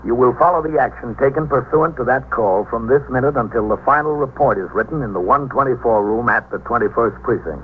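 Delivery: measured narrator; radio narration. A narrator's reading. Narrator leading the listener into the station, measured. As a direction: guide the listener into the muster room.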